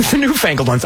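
amused repeat of "newfangled"; laughing. Shown as a demonstration. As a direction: chuckle as you repeat "newfangled". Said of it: "I said newfangled".

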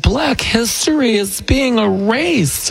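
high, slow mocking quote; mock straight-faced claim. Host quoting The View panelist, mock earnest. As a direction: draw it out high, in mock disbelief. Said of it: "with a straight face".

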